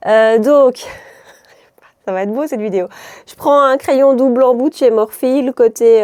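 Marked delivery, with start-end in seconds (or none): 3.3-6.0 playful put-on Liège accent, a bit louder. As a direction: ham up a Liège accent for laughs. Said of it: "c'est plus à Liège, hein, ce que je viens de faire". (accent liégeois exagéré pour rire)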